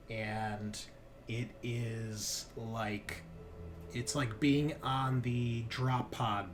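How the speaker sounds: measured tabletop narration with dramatic pauses; game master's scene setting. Acted. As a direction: unfold the drop for the players, phrase by phrase.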